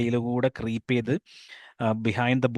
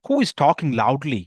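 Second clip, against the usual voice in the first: raised voice; 4 dB louder, much slower than usual. Acted. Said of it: "Raising her voice just enough".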